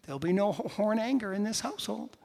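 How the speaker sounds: gently chide, as a wife to her husband; imitated wife. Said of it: "my lovely wife saying".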